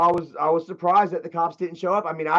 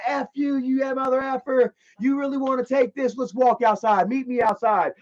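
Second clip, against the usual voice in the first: retold taunts; 6 semitones higher than usual. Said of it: "I'm walking out".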